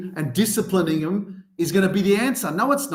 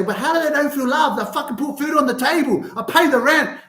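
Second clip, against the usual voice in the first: defensive parent; 11 semitones higher than usual. Retold or imitated. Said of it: "you're gonna say".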